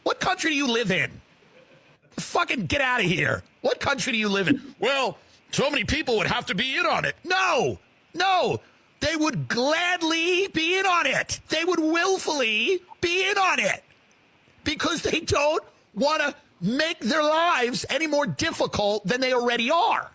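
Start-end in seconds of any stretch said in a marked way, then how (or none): 4.8-7.2 raised, sing-song mockery of the argument; mocking the dumb guy. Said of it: "dumb guy thing that everyone says". 7.2-20.1 shouting rant. Acted. Heated comedic rant, drawn out.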